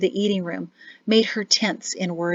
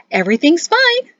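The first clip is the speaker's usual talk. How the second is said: too bright, higher and louder; forced cheer; 9 semitones higher, 6 dB louder than usual. A narrator's reading. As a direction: sound overly cheerful to hide worry. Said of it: "too happily".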